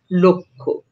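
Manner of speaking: লক্ষ্য said as lokkho, no l-k-sh cluster; spoken pronunciation. Shown as a demonstration. Teacher shows students how লক্ষ্য is really said, lokkho. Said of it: "কিন্তু আমরা উচ্চারণ করব".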